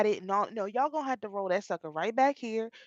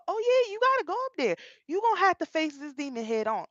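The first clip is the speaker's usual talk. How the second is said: spirit voice; 7 semitones higher than usual. Retold or imitated. Guardian angel answering.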